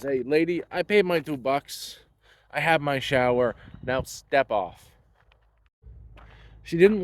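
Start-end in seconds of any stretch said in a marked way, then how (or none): 0.0-4.9 dismissive retort. Retold or imitated. Telling the woman off.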